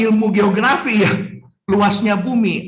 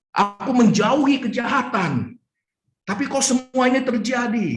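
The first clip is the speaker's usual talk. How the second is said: pleading lament; 4 semitones higher than usual. Acted. Job's anguished complaint acted out.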